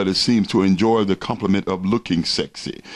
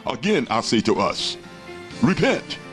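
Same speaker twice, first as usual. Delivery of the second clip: religious zealot. Real, not acted. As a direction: warn them like a street preacher. Closing call to repent.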